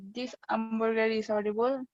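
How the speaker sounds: "This hamburger is horrible" with the H dropped, said as "'amburger is 'orrible"; Yorkshire accent. Shown as a demonstration. Student showing the class the Yorkshire dropped H, a Yorkshire accent. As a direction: drop every H: "'amburger", "'orrible". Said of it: "the pronunciation will be".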